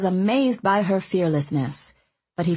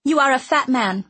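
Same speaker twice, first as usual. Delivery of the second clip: high, firm and matter-of-fact; decided; 7 semitones higher, 4 dB louder, faster than usual. A narrator's reading. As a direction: state it plainly, no doubt. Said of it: "she said decidedly".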